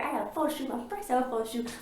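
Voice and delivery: high, bubbly mock glee; imitating Margot's giddy boast; giddy excitement. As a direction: play a giddy girl bragging. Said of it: "She's like".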